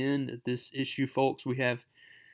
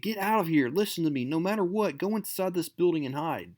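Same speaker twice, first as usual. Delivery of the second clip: higher, pressing urgency; urgent warning; 4 semitones higher than usual. Acted. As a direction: hurry her out of danger. Spider-Man urging Mary Jane away.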